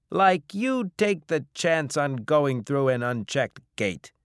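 high, loud, slow scoff; sceptical bar owner. Acted. Bar owner disbelieving the captain's story, loud scepticism. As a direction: scoff at the tall tale, loudly.

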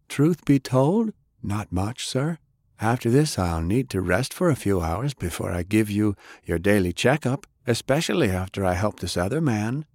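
a worn-out healer pleading for rest; weary tubby healer. Acted. Healer telling the rich man he needs rest, lightly voiced weary.

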